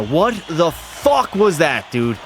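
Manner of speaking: slow, stretched disbelieving snarl; drawn-out outrage. Real, not acted. Goalie fuming at a bad play, drawn-out outrage. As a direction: drag out every word in outrage.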